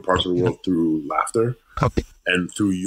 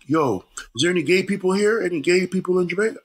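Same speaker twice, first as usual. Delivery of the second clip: imitating the comic; 9 semitones higher than usual. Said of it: "the comic was like".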